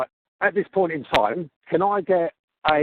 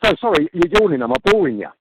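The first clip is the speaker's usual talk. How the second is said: sarcastic; 4 semitones higher, 7 dB louder than usual. Real, not acted. Angry customer confronts agent.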